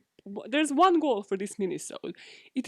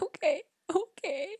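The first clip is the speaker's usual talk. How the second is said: taken aback; 8 semitones higher than usual. Retold or imitated. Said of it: "I was like".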